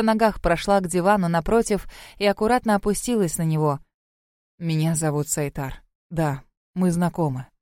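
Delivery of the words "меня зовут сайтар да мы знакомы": sad. A narrator's reading. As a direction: tell her sadly who he is. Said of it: "кивнул он грустно".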